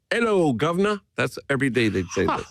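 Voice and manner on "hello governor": high, cheery shout of Hello, governor; loud greeting. Retold or imitated. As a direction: call it out high across the lobby, Scottish style. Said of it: "in the loudest voice imaginable".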